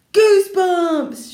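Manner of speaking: very high, loud, drawn-out cry; boy shouting his discovery; excited shout. Acted. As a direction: yell it out in triumph. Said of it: "shouted Sheldon".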